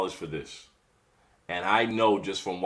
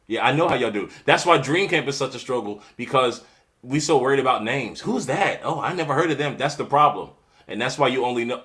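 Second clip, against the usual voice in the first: louder, worked-up scolding; getting mad; 4 semitones higher, 5 dB louder than usual. Real, not acted. Host scolding viewers who chase big names, worked up. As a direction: let real frustration push the words out. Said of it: "I'm getting mad".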